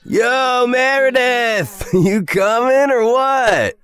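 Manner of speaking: high, drawn-out yell from a car window; brash, high-pitched call-out. Acted. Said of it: "rolled down his window and yelled".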